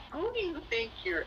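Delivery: indignant protest. Retold or imitated. Acted indignant protest to him.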